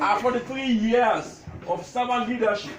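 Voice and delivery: measured recital, pausing between lines; comic tribute poem. Acted. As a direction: declaim witty verses to an amused crowd. Recites his poem to gathering.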